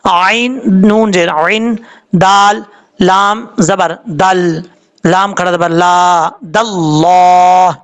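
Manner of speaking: slow letter-by-letter spelling, drawn-out chanted दल्लाह; spelled recitation. Shown as a demonstration. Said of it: "तुम इस तरीके से".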